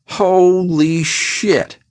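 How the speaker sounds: slow, high, stretched-out shock; a boss seeing a dead body; horrified. A narrator's reading. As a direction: gasp it out in horror. Tree sees the corpse.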